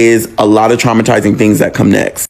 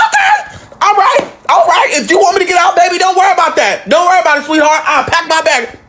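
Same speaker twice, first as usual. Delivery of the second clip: sarcastic okay. Retold or imitated. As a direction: brush her off with fake sweetness. Sarcastic reply as she's thrown out.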